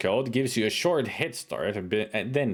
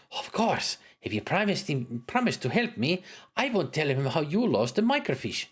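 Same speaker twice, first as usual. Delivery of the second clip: high, sharp woman's voice; woman cleric voice; 4 semitones higher than usual. Acted. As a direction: voice the cleric scolding him. Cleric gets an idea.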